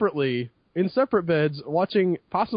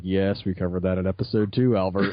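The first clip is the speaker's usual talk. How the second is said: much lower, weary imitation of a companion; unimpressed companion; 11 semitones lower than usual. Companion across the table answering an excited gamer, unimpressed. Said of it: "Burley's, like, sitting across the table".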